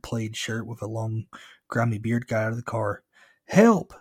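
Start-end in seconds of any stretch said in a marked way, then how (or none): 3.5-3.9 high, loud yell for help; yelled cry. A narrator's reading. Frightened kid yells to the driver for help. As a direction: yell it out urgently. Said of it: "I yelled".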